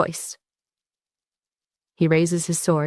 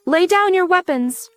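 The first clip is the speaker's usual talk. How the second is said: slow, higher mock plea; pleading; 10 semitones higher, 3 dB louder than usual. A narrator's reading. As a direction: draw out the begging. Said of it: "he pleads".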